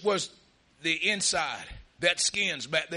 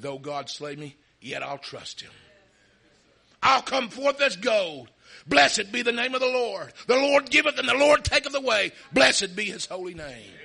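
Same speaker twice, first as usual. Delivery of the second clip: faithful declaration; 4 semitones higher, 7 dB louder than usual. Retold or imitated. Job declares his trust.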